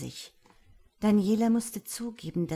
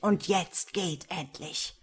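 loud, forceful, angry orders; enraged lord driving his servants out; roared threat; 7 dB louder than usual. A narrator's reading. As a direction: bellow a warning as you dismiss them. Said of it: "brüllte er".

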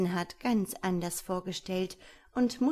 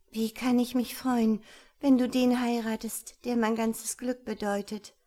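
a slightly higher, louder sister's protest; mild upset in a lightly raised voice; lightly voiced unhappy sister; 4 semitones higher, 5 dB louder than usual. Sad girl answers her sister about the wedding, mildly upset.

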